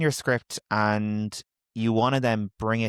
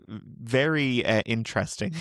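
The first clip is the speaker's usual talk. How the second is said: hesitant interesting; slower than usual. Real, not acted. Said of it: "you say interesting in a derogative manner".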